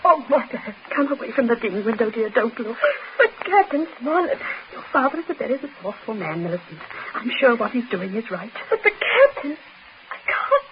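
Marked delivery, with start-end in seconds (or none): 2.3-10.7 crying, choked voice; tearful. Acted. Daughter weeps to her mother at the window, crying. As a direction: fight back tears.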